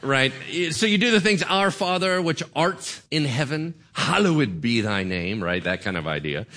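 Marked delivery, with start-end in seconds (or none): 1.4-5.4 hammed-up British recital of old prayer; British accent. Shown as a demonstration. Pastor showing old-school prayer wording to congregation, British accent. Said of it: "say it in a British accent".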